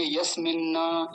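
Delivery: यस्मिन् न with a split-off न; slow incorrect यस्मिन् न; wrong pronunciation. Shown as a demonstration. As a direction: demonstrate the error in यस्मिन् न. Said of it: "ये गलत है".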